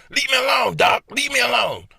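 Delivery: high loud yell to be left alone. Pretend. Yelling at the doctor's voice in his head. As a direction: shout the doctor off.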